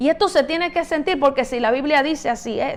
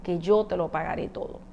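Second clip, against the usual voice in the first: pleading; 3 semitones lower, 6 dB quieter than usual. Retold or imitated. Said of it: "suplicando le pedía".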